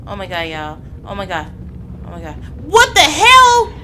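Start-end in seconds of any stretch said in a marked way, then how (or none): 2.7-3.7 high, loud, slow laughing what-the-hell; startled laughing yell. Real, not acted. Jolted by a scare in a horror game, laughing yell.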